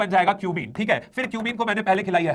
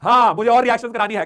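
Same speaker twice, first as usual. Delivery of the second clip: hoarse strained voice; 2 semitones higher, 5 dB louder than usual. Real, not acted. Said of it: "मेरा गला बैठा जा रहा है।".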